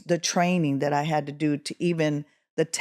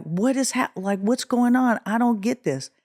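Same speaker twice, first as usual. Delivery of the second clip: higher-pitched, baffled self-quote; confused, raised-pitch questioning; bewildered; 5 semitones higher than usual. Retold or imitated. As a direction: act out not understanding what is going on. Relives frightening confusion on stage.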